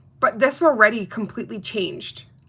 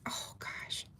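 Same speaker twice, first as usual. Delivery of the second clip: breathless whisper of amazement; awed whisper; 21 dB quieter than usual. Real, not acted. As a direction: whisper it as if it might vanish. Admiring the polish close up.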